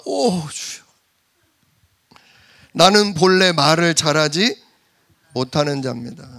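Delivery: mock crying lament; a hammed-up tearful Moses; tearful plea. Moses tearfully tells the Lord he cannot speak, mock crying. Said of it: "벌써 여기서부터 나와".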